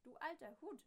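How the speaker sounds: high, loud taunting call. A narrator's reading. Machine taunting the neighbour with a loud call. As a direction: fling the insult out loud. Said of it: "ruft die Sprechmaschine".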